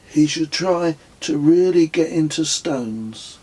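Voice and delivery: deadpan joke in Kez's voice; Kez's quip. A narrator's reading. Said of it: "he said".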